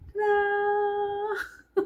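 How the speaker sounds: high excited reveal. Real, not acted. Vlogger unveiling her drink to viewers, high and excited. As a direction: sing it out like a magic trick. Presenting the cup.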